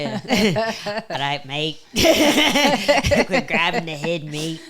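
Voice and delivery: mock Australian cornerman; joking attempt at an Aussie accent, laughing. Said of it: "You probably have a better Australian".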